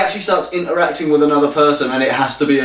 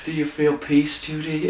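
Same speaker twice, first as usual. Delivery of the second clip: hushed preacher quote; 7 dB quieter than usual. Retold or imitated. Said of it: "and he says".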